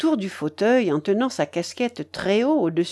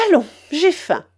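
higher, lively imperious matriarch; bossy old grandmother; 8 semitones higher, 5 dB louder than usual. Acted. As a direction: announce the plans, brooking no objection. (babouchka décidée, voix plus haute)

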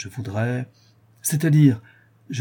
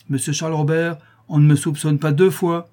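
stern rebuke, pitched up; offended; 5 semitones higher, 4 dB louder than usual. Acted. Notary rebukes client who suspected him, offended. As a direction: take offence, raising the voice a little. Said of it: "Vous êtes fâché".

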